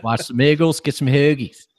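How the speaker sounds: put-on laughing through a jokey Philadelphia accent; Philly accent. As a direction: ham up a Philly local while cracking up. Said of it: "a Yinzer doing a Philadelphia accent".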